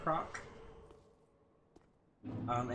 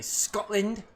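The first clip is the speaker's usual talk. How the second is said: loud cheer; 8 semitones higher, 8 dB louder than usual. Acted. Chat asks for Scottish accent.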